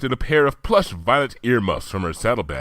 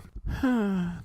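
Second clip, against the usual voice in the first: airy sigh; 10 semitones higher, 6 dB quieter than usual. Acted. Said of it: "sighed airily".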